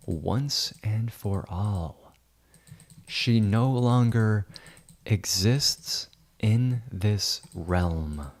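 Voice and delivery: very slow, solemn pretend decree; mock wizard proclamation. Wizard banishes Amy from his realm, slow mock-grand. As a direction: draw out every word with mock grandeur.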